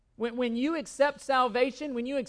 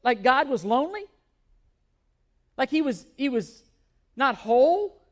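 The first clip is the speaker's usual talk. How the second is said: louder, disbelieving rhetorical questions; halting, emphatic incredulity; incredulous questioning; 5 dB louder than usual. Real, not acted. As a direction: question the idea as if absurd. Scoffing at a song lyric.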